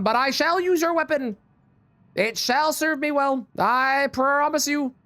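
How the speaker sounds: slow, lofty villain proclamation; hammed-up evil overlord; dark lord. Villain voice returns after aside.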